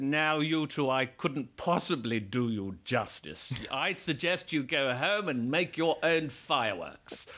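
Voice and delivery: silly stage voice, politely theatrical; slightly hammed-up gracious refusal; in-character performer. Actor turns down the couple, grandly in character. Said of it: "in character, right to the end".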